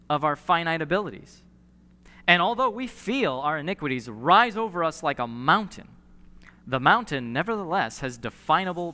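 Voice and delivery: reading a cherished quote to the congregation, fervently; preached quotation reading. Acted. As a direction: proclaim the quote from the pulpit. Reads Tozer quote aloud.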